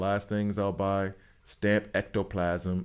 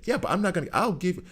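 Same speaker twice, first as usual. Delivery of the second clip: exasperated retort; 2 semitones higher than usual. Retold or imitated. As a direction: argue back, fed up but generous. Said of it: "It's like".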